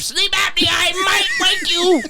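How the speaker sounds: mock seductive come-on.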